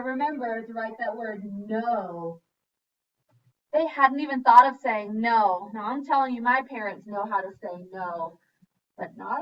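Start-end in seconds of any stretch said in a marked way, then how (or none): 3.7-5.7 indignant exclamation. Real, not acted. Teacher exclaims at parents.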